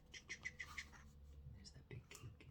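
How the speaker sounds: very soft, slow whisper; suspense whisper. Acted. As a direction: draw them in with a slow secret whisper. Suspense in story reading.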